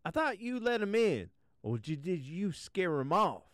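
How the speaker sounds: high prim royal question; a puzzled queen fussing; queen's voice. Acted. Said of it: "asked the queen".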